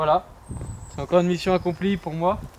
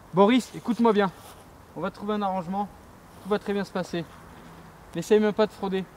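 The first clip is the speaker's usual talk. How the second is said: higher, hammed-up cop confronting a suspect; mock cop voice, a bit higher; tough cop; 4 semitones higher than usual. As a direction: play the cocky cop laying down the law. Plays a tough cop confronting Boris.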